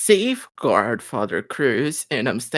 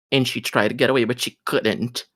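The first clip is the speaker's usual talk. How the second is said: ordinary delivery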